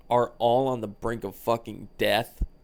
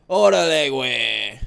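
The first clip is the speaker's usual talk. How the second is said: loud exclamation; 2 semitones higher, 9 dB louder than usual. Acted. Sudden exclaimed Mexican slang.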